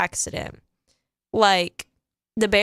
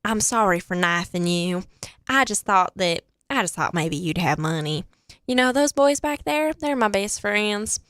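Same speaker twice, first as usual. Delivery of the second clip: Retold or imitated. Imitating the kid apologising to the drug dealer, lightly drawled impression. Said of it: "he's talking like this".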